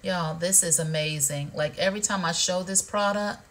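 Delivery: low, relaxed voice. Real, not acted. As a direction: let the voice sink as you relax. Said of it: "it make my voice go lower".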